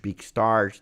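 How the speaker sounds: usual speaking voice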